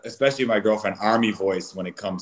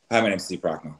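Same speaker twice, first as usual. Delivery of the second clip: a little more gentle; 4 semitones lower, faster than usual. Shown as a demonstration. Greeting his girlfriend at home, a little more gentle. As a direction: bring the tone down, gentle. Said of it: "It was a little more gentle".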